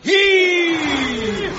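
shouted heave with effort. Acted. Hauling Pike on a blanket.

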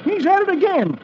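put-on high, panicky old-timer voice; high-pitched scared sidekick; jittery old-timer. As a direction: play a frightened old prospector. Dolfo voiced.

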